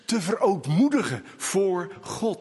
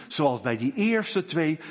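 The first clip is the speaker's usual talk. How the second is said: normal talking voice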